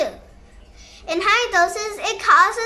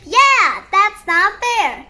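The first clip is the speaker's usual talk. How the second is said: mock indignation; 5 dB louder, slower than usual. Tim is angry.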